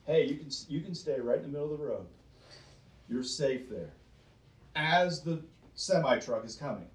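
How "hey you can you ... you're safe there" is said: mock careless bystander. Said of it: "It's like saying".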